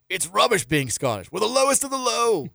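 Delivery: mock Scottish movie line, hammed up; Scottish accent that keeps slipping; bad Scottish accent. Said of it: "I can't do a Scottish accent".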